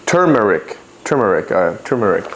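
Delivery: "turmeric" with the first r sounded, TER-mer-ick; trying out pronunciation. Shown as a demonstration. Unsure how to say it, "turmeric" tried as TER-mer-ick. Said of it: "I don't know how you wanna say it".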